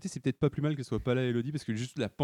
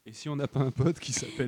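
while sipping a drink. Real, not acted. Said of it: "Dit-il en buvant".

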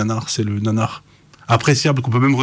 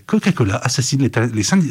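half-formed teleshopping pitch, breaking off; tentative teleshopping voice. Shown as a demonstration. Voice actor attempting a demo cold, tentative teleshopping voice. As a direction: try out a salesy voice cold, stumbling. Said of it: "je vais le faire. Je vais bien le faire".

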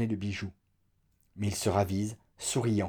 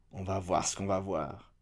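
grumbling; 4 semitones lower, 7 dB quieter than usual. A narrator's reading. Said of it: "qui grognent".

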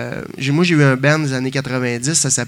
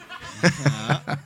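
being tickled; 4 dB quieter than usual. Real, not acted. Asked if ticklish, then touched.

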